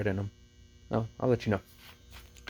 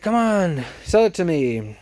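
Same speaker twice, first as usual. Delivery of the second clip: imitated haggler's coaxing, higher at the start; mock pleading; 6 semitones higher than usual. Vlogger imitates lady pressing manager to sell, coaxing. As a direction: lightly act out a customer wheedling for a deal.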